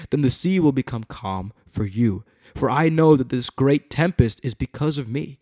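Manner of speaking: animated, emphatic Bible reading; dramatic scripture reading. A narrator's reading. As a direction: read it out to a congregation. Reads scripture aloud.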